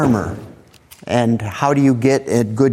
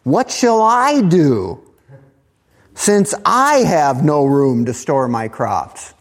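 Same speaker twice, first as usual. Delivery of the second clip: fretting rich farmer; slower than usual. Acted. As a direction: voice the rich man wringing his hands. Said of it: "This is what he thought within himself".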